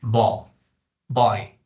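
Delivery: "bo" slow and glottal, then "buy"; drawn-out "bo" then "buy", lips still; slow model pronunciation. Shown as a demonstration. Teacher asks students to notice, slow glottal "bo". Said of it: "Fíjense".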